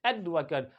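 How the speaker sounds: "एडवोकेट" as AED-vuh-kuht; short 'cut' ending on "एडवोकेट"; noun pronunciation. Shown as a demonstration. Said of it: "क्या कहते हैं?".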